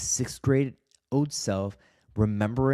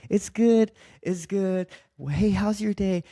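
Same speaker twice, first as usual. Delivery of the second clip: much higher, fake-upbeat greeting; put-on cheerful mask; 10 semitones higher, 4 dB louder than usual. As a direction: put on a cheery front for everyone. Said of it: "that mask that I'm wearing all day".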